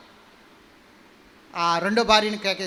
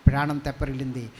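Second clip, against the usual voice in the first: ordinary talk, nothing marked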